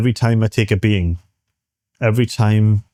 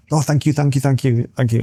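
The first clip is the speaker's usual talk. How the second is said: higher, eager stream of thank-yous; gushing thanks; 4 semitones higher than usual. Retold or imitated. Hitchhiker snapping out of trance, thanking driver, gushing eagerly. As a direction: bubble over with relief and thanks. Man snaps back to gratitude.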